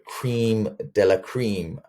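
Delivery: bad French accent on cream de la cream, slow and hammed-up; terrible French accent. Webinar host jokingly pitches premium service, mock French accent. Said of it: "that was a terrible French accent".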